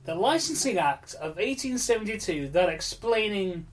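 talking with a burning mouth; mouth burning from spicy food. Real, not acted. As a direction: speak through the heat of spicy food. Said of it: "sorry, my mouth is on fire".

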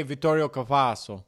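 lightly put-on Italian pronunciation; Italian accent. Shown as a demonstration. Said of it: "in an Italian accent".

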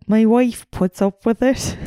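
a hint of an English accent, lightly done; half-hearted English accent quote. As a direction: try a passing English accent for the dad. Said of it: "I can't do that accent".

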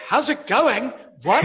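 high-pitched, mock-baffled echo of the accent; retold astonishment. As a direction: repeat it back in comic disbelief, voice shooting up. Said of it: "And I'm like".

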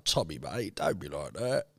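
soft, low whispered menace; Alfie whispering. Retold or imitated. As Alfie talking to Tommy, a low whispered threat. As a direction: whisper it like a gangster.

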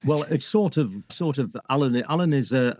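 ordinary talk, nothing marked

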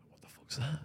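hushed, voiceless whisper; whispered reaction. Retold or imitated. Storyteller reacting to a noise from another room, whispering.

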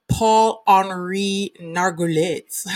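slow attempt at a French accent. Real, not acted. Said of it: "Gonna work on my French accent".

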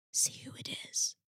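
hushed urgent whisper. Acted. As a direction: whisper so no one hears. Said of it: "Toy whispered".

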